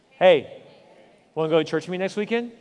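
quick, light, friendly invitation; casual invite demo. Shown as a demonstration. Pastor shows congregation how to invite, quick casual tone. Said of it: "this is what it sounds like".

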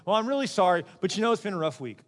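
mock apology with punched-up sorry; excuse-making apology. Shown as a demonstration. Preacher showing how not to apologize, hollow and excuse-making. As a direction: blurt each sorry loudly, then slide into the excuse. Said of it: "how not to do this".

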